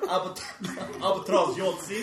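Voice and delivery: laughing. Real, not acted. Saying his name through laughter.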